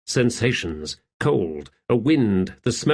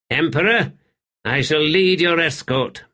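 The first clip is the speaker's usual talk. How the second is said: put-on eager young warrior; 6 semitones higher than usual. Middick voiced.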